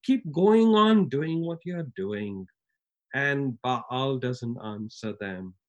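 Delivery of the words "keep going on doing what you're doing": mocking taunt. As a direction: egg them on with mocking glee. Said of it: "having a little bit of fun".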